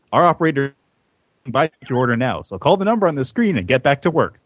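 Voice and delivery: upbeat TV sales pitch; infomercial. Acted. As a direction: sell it like a late-night ad. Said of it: "this is the advertisement".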